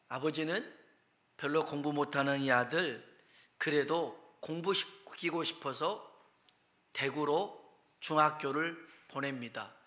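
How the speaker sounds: ordinary delivery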